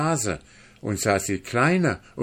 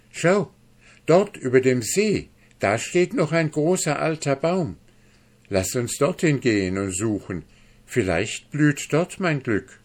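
higher-pitched, excited cry of discovery; sudden call; 6 semitones higher, 4 dB louder than usual. A narrator's reading. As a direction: call out suddenly, pitch jumping up on the first word. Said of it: "plötzlich rief er".

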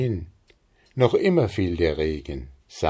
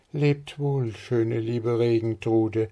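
leise und höher, wehmütig; sehnsüchtiger Abschied; 4 semitones higher, slower than usual. Acted. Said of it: "rief sie". (Maren verabschiedet sich leise und sehnsüchtig)

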